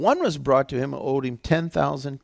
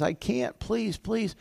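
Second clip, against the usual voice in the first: high, soft imitated begging; pleading; 8 semitones higher, 5 dB quieter, slower than usual. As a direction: beg meekly as the helpless debtor. Acting debtor begging master.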